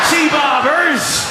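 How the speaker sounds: Sea Barbers stretched slow and shouted high; mocked local name. Comic to crowd, hammy slow shout of Sea Barbers. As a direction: call out Sea Barbers slowly, hammed up. Mocking audience pronunciation.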